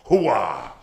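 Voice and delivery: Pacino hooah bark; gung-ho hooah; loud gung-ho soldier. Acted. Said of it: "Here's his Al Pacino".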